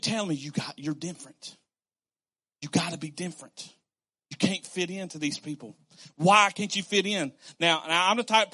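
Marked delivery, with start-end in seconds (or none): 0.3-5.8 quiet voice of God. Pretend. God's quiet answer.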